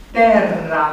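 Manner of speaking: Terra with a long doubled rr; double R. Shown as a demonstration. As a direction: hold the rr in Terra, te-rra. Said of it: "care se scrie cu doi de R". (Terra cu r dublu prelung)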